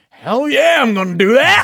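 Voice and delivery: high, loud whoop of eagerness; excited yell. Retold or imitated. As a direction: shout it like you're all in. Retelling his eager reaction to audition.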